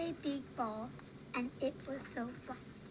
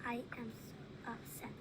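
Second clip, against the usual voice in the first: slow, soft sad reading; saddest voice; 7 dB quieter than usual. Acted. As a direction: read it slowly and softly, like you're sad. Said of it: "in your saddest voice".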